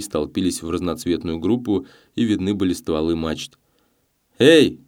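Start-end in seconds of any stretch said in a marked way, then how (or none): 4.4-4.8 higher, louder, slow call; a watchman shouting again into the dark; distant shout. A narrator's reading. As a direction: yell it from far across the water. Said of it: "донеслось снова".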